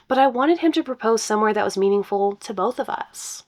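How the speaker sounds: reading a post aloud; story narration. Acted. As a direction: brighter storytelling read.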